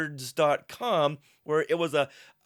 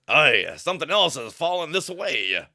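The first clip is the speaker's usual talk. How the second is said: a hint of pirate in the voice. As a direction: read it like a salty pirate. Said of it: "who speaks like a pirate".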